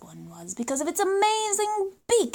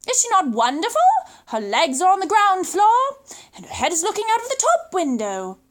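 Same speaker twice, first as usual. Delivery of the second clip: admiring pelican; 3 semitones higher, 3 dB louder than usual. Acted. Pelican praises the giraffe.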